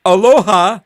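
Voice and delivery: mocking high aloha; jeering aloha. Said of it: "a group of people that are going".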